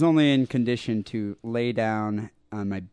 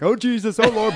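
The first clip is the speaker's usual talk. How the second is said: aunt crying out; 10 semitones higher, 4 dB louder than usual. Retold or imitated.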